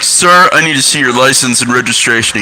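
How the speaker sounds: lightly voiced police officer; a hint of an official cop making a demand; pretend cop. Changed voice, posing as a cop behind a blind man, lightly official. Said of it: "so I changed my voice".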